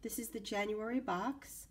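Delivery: hoarse from a cold; croaky voice, still getting over a virus; raspy sick voice. Real, not acted. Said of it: "excuse my voice, I am still trying to get over a cold".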